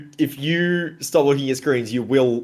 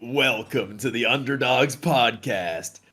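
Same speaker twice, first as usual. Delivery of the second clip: announcer voice; slower than usual. Pretend. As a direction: roll it out like a radio host. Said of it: "I'm doing the intro".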